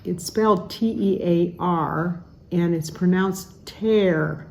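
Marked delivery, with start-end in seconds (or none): 2.5-4.5 "tear" rhyming with bear, the verb "rip". Shown as a demonstration. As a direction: say "tear" like "tare", not "teer". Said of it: "not the tear like cry".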